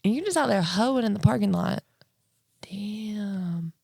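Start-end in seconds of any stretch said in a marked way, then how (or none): 2.7-3.7 breathy awed whisper, much softer; whispered damn. Real, not acted. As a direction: drop to a shocked whisper. Shocked reaction to car story.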